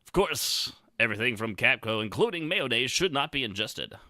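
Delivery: upbeat ad announcer read. Shown as a demonstration. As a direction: read the fine print like an ad. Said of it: "announcer guy".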